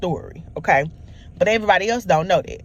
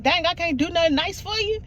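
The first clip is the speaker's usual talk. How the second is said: mock offended boyfriend; 10 semitones higher than usual.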